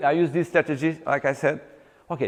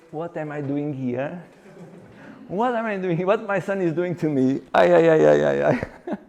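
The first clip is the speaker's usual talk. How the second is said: shy client's thoughts. Retold or imitated. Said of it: "I could see in her face".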